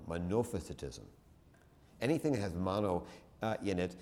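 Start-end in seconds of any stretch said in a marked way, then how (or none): 0.1-1.1 monophysitism stressed on the second syllable, mo-NO-physitism. Shown as a demonstration. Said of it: "the accent's on the second O".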